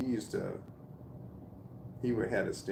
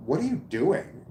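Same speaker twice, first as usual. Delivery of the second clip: mock accusing coworker; 7 semitones higher, 5 dB louder than usual. Imagined coworker challenging him.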